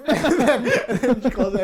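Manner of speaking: words through laughter; giggling while telling it; laughing. Real, not acted. Laughing at the scene.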